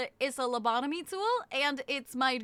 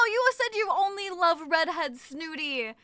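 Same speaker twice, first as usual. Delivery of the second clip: indignant retort; 3 semitones higher, 4 dB louder, slower than usual. Real, not acted. Arguing with chat over Snooty.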